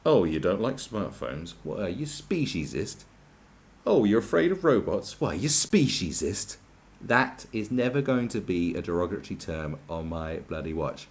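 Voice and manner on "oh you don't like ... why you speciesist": mock accuser. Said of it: "It's like".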